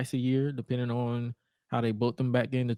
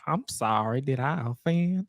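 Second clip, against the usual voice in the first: mock Southern drawl on a drawn-out apology; lightly imitated Southern accent; Stephanie's Southern accent. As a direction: put on a Southern belle accent. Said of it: "Stephanie's Southern accent".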